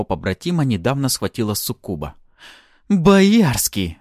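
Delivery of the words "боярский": high, loud furious name-call; wrathful. A narrator's reading. Artara choking the hero, furious. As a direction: spit the name in anger. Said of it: "гневно прошипела она".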